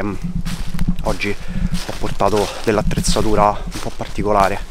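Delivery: panting while walking; winded from the uphill hike; out of breath. Real, not acted. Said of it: "scusate, c'ho il fiatone". (col fiatone)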